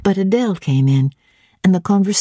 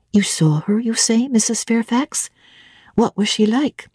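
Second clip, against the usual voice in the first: put-on higher, eager young woman asking; curious governess pressing for details; young Jane; 4 semitones higher than usual. Jane eagerly questioning Mrs Fairfax, higher curious voice.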